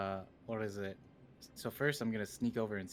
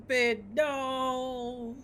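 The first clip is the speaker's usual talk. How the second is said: high urgent cry out to a friend; high alarmed call; anguished call; 4 dB louder than usual. Acted. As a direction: cry out to stop him. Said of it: "I go".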